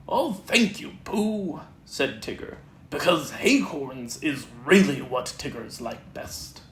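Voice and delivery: lightly voiced bouncy Tigger; a hint of excited Tigger at the mirror. Tigger thanks Pooh.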